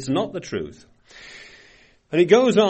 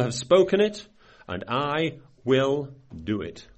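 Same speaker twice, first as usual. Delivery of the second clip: scripture reading. Acted. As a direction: dwell on each word of the verse. Reads scripture aloud.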